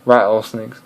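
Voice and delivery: "rattlesnakes" in an imitated British accent; mock-British pronunciation. Shown as a demonstration. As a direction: say "rattlesnakes" like a Brit. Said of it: "the British is gonna say".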